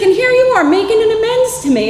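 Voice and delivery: imitated tearful amazement. Boss to former employee making amends, imitated tearful wail. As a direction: imitate someone overcome and crying. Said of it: "he starts crying a little".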